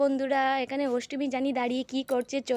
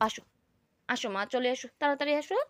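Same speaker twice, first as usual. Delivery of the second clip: tender coaxing; 2 semitones lower than usual. Real, not acted. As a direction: coax her out kindly. Mother coaxing upset daughter.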